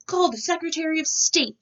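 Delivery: high, loud presidential command; calling for help from the bathtub; shouted order. A narrator's reading. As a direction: bark it out like a fed-up president. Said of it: "shouted President Taft".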